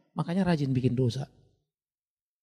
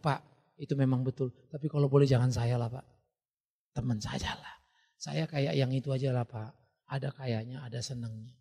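lower, softer sheepish plea; pleading excuse; 4 semitones lower, 4 dB quieter than usual. Retold or imitated. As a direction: beg the pastor to spare you, softly. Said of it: "Tapi jangan bilang". (jemaat memohon pelan dan malu-malu)

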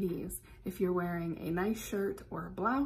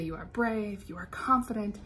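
confident affirmations. Shown as a demonstration. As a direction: pump yourself up. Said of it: "Say some positive things to yourself".

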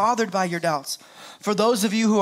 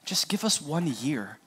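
gentle pitch; 5 semitones lower, 7 dB quieter than usual. Retold or imitated. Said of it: "We have this little phrase".

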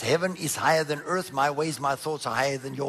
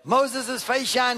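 preaching emphasis; 8 semitones higher, 5 dB louder, much slower than usual. Acted. Preacher builds to climax.

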